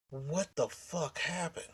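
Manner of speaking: slow, soft disbelief; stunned slow whisper-soft. Retold or imitated. After hearing she left, stunned and slow. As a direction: let it sink in slowly. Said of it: "I said".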